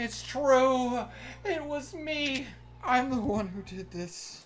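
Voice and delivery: put-on high, loud, tearful, drunken blurting.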